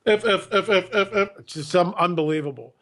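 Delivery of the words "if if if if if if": mock stutter on one repeated word; flustered Obama. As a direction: imitate someone stuck and stammering. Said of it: "He's obviously flustered".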